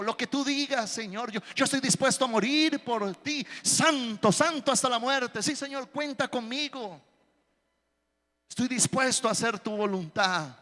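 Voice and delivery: lightly voiced zealous believer promising everything; a hint of starry-eyed, overeager vows; eager overpromising. Eager churchgoer voiced as Pedro.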